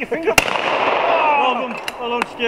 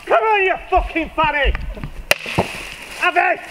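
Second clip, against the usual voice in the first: shouting; 5 semitones higher than usual. Real, not acted. Urging the clay, shouting.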